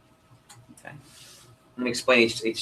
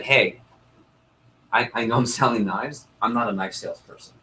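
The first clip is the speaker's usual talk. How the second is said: sincere, frank. Shown as a demonstration. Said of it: "keep it real with them".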